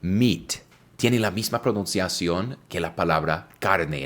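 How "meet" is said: "Meet" said slowly with a long clear ee; teacher modelling "Meet" with a stretched ee; model pronunciation. Shown as a demonstration. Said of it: "En inglés decimos meet".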